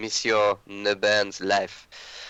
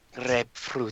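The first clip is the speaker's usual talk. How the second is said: soft, hushed, secretive half-whisper; 3 semitones higher, 4 dB quieter than usual. A game master voicing a character who leans to a player's ear, half-whispering. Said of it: "he goes to your ear and he just whispers".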